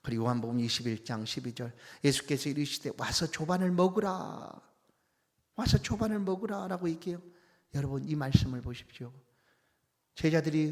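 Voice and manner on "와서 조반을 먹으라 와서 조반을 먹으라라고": Jesus calling his disciples from the shore to breakfast; bright invitation. Pretend. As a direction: call the disciples in to breakfast, "조반을" lifted.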